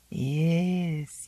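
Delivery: put-on an old woman prophesying trouble; ominous old servant. Old Zélie foretelling Miranda's trouble, slow and ominous.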